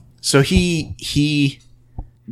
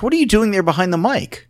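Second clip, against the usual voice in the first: harsh; 9 semitones higher, faster than usual. Retold or imitated. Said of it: "he was hard on these people".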